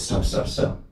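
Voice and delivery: soft, voiceless calming interjection; hushed intervention. Acted. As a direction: quell a quarrel in a hushed voice. Sage interrupts the quarrelling couple.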